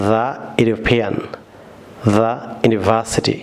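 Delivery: "the" said thuh before "ইউরোপিয়ান" and "ইউনিভার্সিটি", slowly; slow "the ইউরোপিয়ান" with a short thuh; the before yoo sound. Shown as a demonstration. Teacher shows "the" before a y sound, slow and clear. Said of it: "এখানে ইয়া sound হয়েছে".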